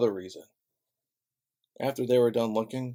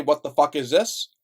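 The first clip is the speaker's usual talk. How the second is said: mock angry demand; 3 semitones higher, 6 dB louder than usual. Acted confrontation at office.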